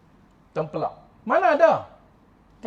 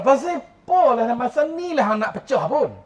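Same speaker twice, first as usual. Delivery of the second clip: higher, louder exasperated complaint, easing slowly at the end; mock annoyed grumble; 5 semitones higher, 3 dB louder than usual. Driver grumbling at his burst tyre, in mock exasperation. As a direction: act out a man fuming over a burst tyre. Man angry at flat tyre.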